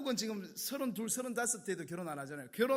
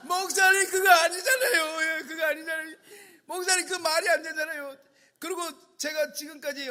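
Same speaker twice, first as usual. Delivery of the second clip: hammed-up high wail, loud outburst then sustained complaint; wailing, distraught protest; 7 semitones higher, 7 dB louder than usual. Dumped student protesting to her pastor, mock-hysterical wailing. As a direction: act out a tearful fuss, pitched far up. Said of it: "뭐 울고 불고 막 난리가 난 거예요".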